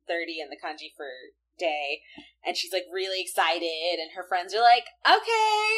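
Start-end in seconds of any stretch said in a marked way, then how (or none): 5.1-5.7 high squeaky mock okay; a lightly voiced bored friend; mock friends' okay. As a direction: toss off a high, dismissive okay. Friends' dismissive reply.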